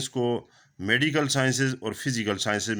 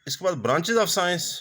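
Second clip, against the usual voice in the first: slowed right down, pitched higher, a title being read; slow heading announcement; 8 semitones higher, much slower than usual. Real, not acted. Teacher introducing the branches of science to students, slow title read. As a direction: spell out the new section heading deliberately.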